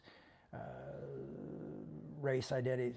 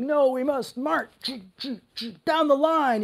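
mock fearful conformist; 10 semitones higher, 6 dB louder, slower than usual. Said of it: "people are like".

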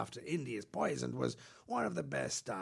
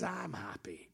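whisper; slower than usual. Pretend. Emoji meaning voiced as whisper.

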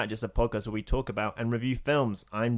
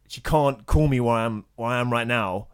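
irritated retort; 6 dB louder than usual. Retold or imitated. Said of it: "he was in a bit of a bad mood".

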